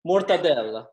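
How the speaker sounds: mortadella with every syllable sounded, final a included; Italian mortadella. Shown as a demonstration.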